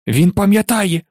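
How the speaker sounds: high, delighted exclamation; excited cry. A narrator's reading. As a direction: cry it out to the whole room. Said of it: "закричав Дідалус Дігл".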